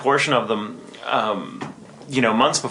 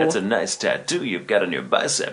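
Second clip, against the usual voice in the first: mild smarmy flirt. Shown as a demonstration. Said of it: "cheesy, smarmy".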